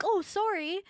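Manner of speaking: high, falsely polite apology; passive-aggressive apology. Acted. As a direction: say sorry while meaning the opposite. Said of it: "we're just so passive aggressive".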